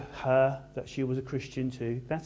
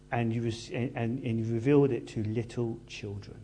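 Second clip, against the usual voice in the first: reverent prayer; 4 semitones lower than usual. Acted. Jesus's prayer quoted.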